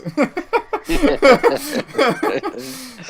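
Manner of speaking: imitated malfunctioning printer noise; printer whir. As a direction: sputter like a broken printer. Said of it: "malfunctioning printer noise".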